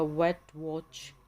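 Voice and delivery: "वेट, वॉच" said slowly, stressing the w sound; slow clear example words. Shown as a demonstration. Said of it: "वे की sound देगा". ("वेट, वॉच" धीरे धीरे बोलना)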